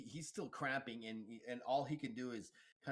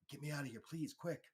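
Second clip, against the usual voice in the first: lightly voiced woman begging for help, higher; a mild, higher-pitched urgent plea; pleading lady; 4 semitones higher than usual. Injured lady begging her rescuer to flee, lightly pleading. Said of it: "the lady's like".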